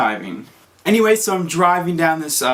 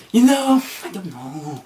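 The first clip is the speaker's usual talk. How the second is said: unsure, trailing off; 5 semitones higher, slower than usual. Retold or imitated. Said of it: "I'm like".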